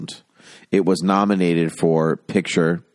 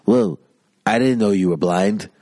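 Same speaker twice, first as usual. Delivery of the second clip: lightly voiced indignant actor, pitched up; mock protest in a slightly higher voice; Marlon Brando; 4 semitones higher than usual. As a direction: play a put-out film star, lightly hammed-up. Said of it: "Marlon Brando is like".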